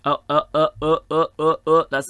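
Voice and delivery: loud, high, stuttered uh-uh-uhs; flustered protest. Real, not acted. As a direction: blurt rapid repeated uhs in alarm. Flustered reaction to game moving on.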